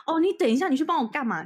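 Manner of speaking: high, loud, flustered blurt; a jumpy wife stalling her husband; nervous. Retold or imitated. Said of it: "很紧张地抓住了她老公说".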